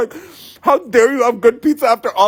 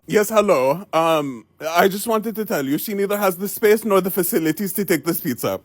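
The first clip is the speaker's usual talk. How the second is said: stern restaurant owner; 4 semitones lower, 3 dB quieter than usual. Retold or imitated.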